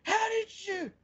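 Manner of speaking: high-pitched mock astonishment; stunned disbelief. Imitating foe whose flame just went out, high stunned disbelief. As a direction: squeak it out in comic disbelief.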